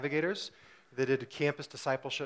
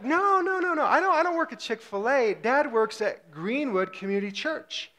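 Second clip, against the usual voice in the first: high-pitched hurried denial; dad hastily correcting his son, mock-flustered; flustered correction; 8 semitones higher than usual. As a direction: squeak out a mock-panicked no, no.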